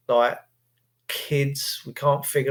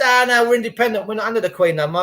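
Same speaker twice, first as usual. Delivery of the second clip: a higher, quicker, lightly hammed-up Australian accent; mock Aussie accent; 5 semitones higher, faster than usual. Quoting Australians claiming independence, in a mock Aussie accent. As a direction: rattle it off like a defiant Aussie. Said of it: "And they say".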